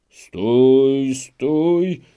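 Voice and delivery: two loud, rising cries of stój; shouted halt. Acted. Wedding guests shouting to stop the procession, loud alarm. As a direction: bark the order to halt, loud and high. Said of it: "wołano z obu stron".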